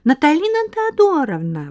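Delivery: high loud call across the house; shouting. Acted. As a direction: call out to the director upstairs. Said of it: "вдруг закричала она".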